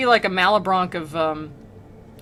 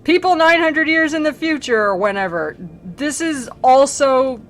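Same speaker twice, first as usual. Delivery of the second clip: put-on old-timey people; 8 semitones higher, 5 dB louder than usual. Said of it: "people would be like".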